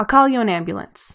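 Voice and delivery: plain reading voice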